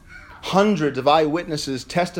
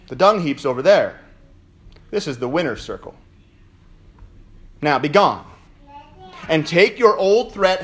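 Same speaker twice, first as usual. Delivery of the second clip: defiant taunt; 3 semitones higher than usual. Pretend. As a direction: sneer down the devil. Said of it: "say to the Lord of Loserville".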